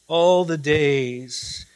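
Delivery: slow "All the days", easing off. Shown as a demonstration. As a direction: let "All the days" settle slowly. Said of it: "Literally, it reads".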